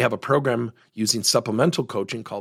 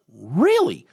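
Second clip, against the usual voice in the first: stunned, a bit louder "Really?"; 4 semitones higher, 5 dB louder than usual. Retold or imitated. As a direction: ask it as if you can't believe it. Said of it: "Just stunned".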